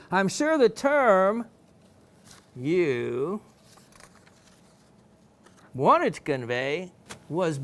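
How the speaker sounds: loud, slow, drawn-out reading; spaced-out, emphatic read-aloud; slow deliberate reading. Acted. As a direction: read it out slowly with long pauses between phrases. Reads her correction out emphatically.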